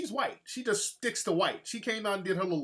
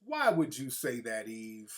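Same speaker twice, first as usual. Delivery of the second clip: lower, soft whisper of disbelief; disbelieving whisper; 7 semitones lower, 5 dB quieter than usual. Retold or imitated. Whispering to Eve in disbelief about her husband. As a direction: breathe it out, stunned. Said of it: "I'm like".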